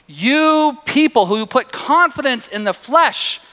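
high, loud and slow, scolding; indignant rebuke. Retold or imitated. Paul rebuking the Galatians, high indignant rebuke. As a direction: lash out at the flock. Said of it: "he is saying".

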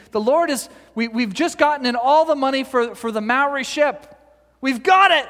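high, loud, triumphant proclaiming; excited announcement. Retold or imitated. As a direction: announce the big win to a cheering crowd. Loren's imagined triumphant announcement on stage.

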